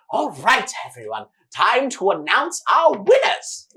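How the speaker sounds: grand announcer. Acted. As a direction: boom it out to the whole arena. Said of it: "and he says".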